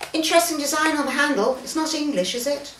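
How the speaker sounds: a touch of an eager naturalist; excited young man. Acted. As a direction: lean in, keen and curious. Mister Evans voiced, excited.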